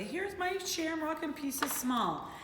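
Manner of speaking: slow, sing-song model sentence; slow read-aloud. Shown as a demonstration. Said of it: "and say".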